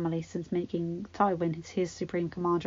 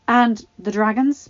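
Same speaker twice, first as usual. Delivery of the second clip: loud, raised whiny complaint; petulant boy king; 3 semitones higher, 9 dB louder than usual. Acted. Joffrey whining to Pycelle about the cold. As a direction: whine like a spoiled king.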